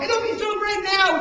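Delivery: high, loud gushing promise; mock enthusiasm. Imagined promise of instant reward, high mock enthusiasm. Mimicking a falsely rosy promise.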